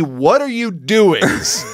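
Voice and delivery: slow, puzzled asking; drawn-out, wary curiosity; bemused question. Retold or imitated. Passing stranger slowly asks what he is doing, puzzled. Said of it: "I did get at least three".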